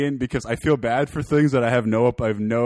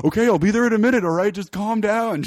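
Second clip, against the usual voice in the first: imitating placating friend; 8 semitones higher than usual.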